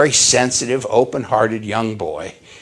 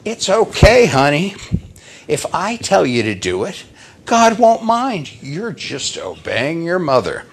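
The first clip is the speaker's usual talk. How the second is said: lightly imitated mom, starting high; high-pitched acted coaxing; coaxing mother; 4 semitones higher than usual. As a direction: reassure a child in a raised mom voice. Voices mother coaxing her son.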